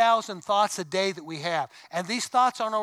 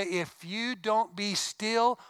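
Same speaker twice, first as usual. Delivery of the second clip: put-on slow, deliberate scolding of kids; slow parental warning; much slower than usual. Parent in church warning squirming kids, slow and stern. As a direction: warn the kids slowly, word by word.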